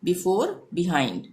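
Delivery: before and behind said slowly with short i. Shown as a demonstration. Teacher repeating words slowly for learners. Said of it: "छोटी ई का उच्चारण".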